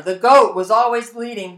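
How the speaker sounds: ordinary delivery, nothing marked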